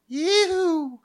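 high, loud cowboy whoop; southern yee-hoo. Pretend. Southern-accented host playing cowboy, whooped yee-hoo. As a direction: holler it out, pitch leaping up and held. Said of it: "how to do the yee-hoo".

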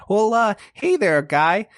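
buddy-buddy cop easing a suspect; Bortle's good cop voice. Acted. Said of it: "with this voice".

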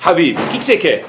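kind, sincere question; not sarcastic. Shown as a demonstration. Hillel greeting the man who came to provoke him, sincerely. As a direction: ask it gently, meaning it. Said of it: "E não foi sarcasticamente".

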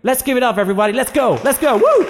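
put-on high, whooping hype-man in American accent; rally the crowd in a put-on American accent. Host urges everybody to put hands up, hyped American accent. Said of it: "you sounded like Declan Donnelly doing an American accent".

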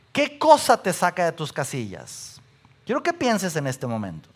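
ordinary delivery

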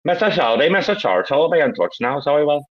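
put-on hard-man catchphrase; mock-official character act; Mister Shelby. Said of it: "do you want Mister Shelby".

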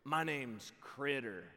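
slow, drawn-out weird neighbor voice; creepy put-on stranger's voice; Critter. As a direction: imitate an odd guy introducing himself, very slowly. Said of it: "And he goes".

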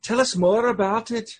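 playful high brogue; Missus Doubtfire. Acted. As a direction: chat nosily in a mock Celtic accent. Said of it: "now you're Missus Doubtfire".

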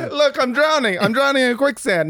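very high mock cry for help; pretend panic. Acting girls drowning in quicksand.

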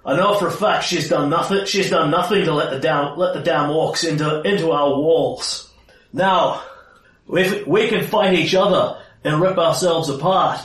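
forceful in-character rebuke; stern, angry commander. Acted. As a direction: take command and demand an explanation. Player's character rallies and intimidates.

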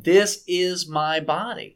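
measured, insistent stress on "is"; emphatic quotation. Shown as a demonstration. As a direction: declare it deliberately, each word set apart, "is" stressed. Translating Latin quote with emphasis.

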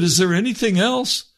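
high, loud, urgent question; urgent appeal. Retold or imitated. Man trying to stop God walking away, urgent. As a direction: call after him to keep him from leaving. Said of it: "I wanted to keep him".

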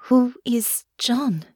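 tender, unpressing curiosity; gentle question. A narrator's reading. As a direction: ask carefully, drawing out the words. Gently asks about the nightmare.

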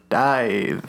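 deep commanding order to dive; submarine captain. Shown as a demonstration. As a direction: call the dive like a sub captain. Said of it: "submarine captain".

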